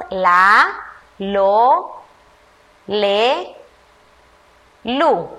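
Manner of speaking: put-on slow, separate syllables read aloud for children; syllable drill. Shown as a demonstration. Teacher reading the L syllables to young pupils, each one drawn out. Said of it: "Vamos todos atentos".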